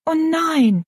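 put-on high-pitched girlish refusal; hasty protest. A narrator's reading. Rosalie refuses her stepmother's plan, in high-pitched protest. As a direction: protest at once, voice jumping up high. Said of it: "sagte Rosalie rasch".

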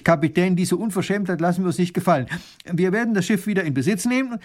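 the baron flares up in outrage; getting worked up. Acted. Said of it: "Baron von Raffigny ereifert sich". (empört aufbrausend, höher und schnell)

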